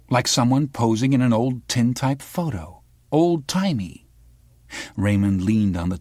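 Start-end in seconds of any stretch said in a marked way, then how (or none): 0.1-4.1 lightly raised, needling reporter voice; a hint of a sharp young reporter; the girl from the news. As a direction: probe him like a pushy journalist.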